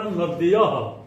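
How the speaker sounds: नद्यः with the द्य cluster, not नदः; correct pronunciation. Shown as a demonstration. Teacher correcting pupils: say नद्यः, not नदः. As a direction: say नद्यः with half द joined to य. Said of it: "इसको नदः नहीं पढ़ना".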